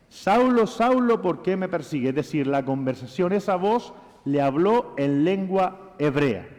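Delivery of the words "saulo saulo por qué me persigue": the voice from heaven, calling high and loud. Acted. Preacher voicing Jesus calling out to Saul, loud. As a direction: call the name out loud like a voice from heaven. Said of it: "dilo tú en voz alta".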